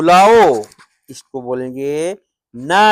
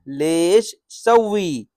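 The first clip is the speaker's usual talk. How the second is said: slow demo; 3 dB quieter, slower than usual. Shown as a demonstration. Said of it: "लेश यानी क्यों".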